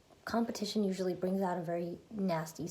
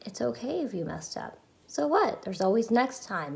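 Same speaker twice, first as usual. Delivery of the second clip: lightly voiced reassuring parent, lilting higher; loving parent; 4 semitones higher than usual. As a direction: reassure yourself like a kind parent. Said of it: "bring my loving parent out and say".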